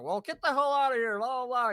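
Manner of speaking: loud, high imitation of a guard's telling-off; retold angry order. Security guard throws the group out, angry imitation. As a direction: order them out, mock angry.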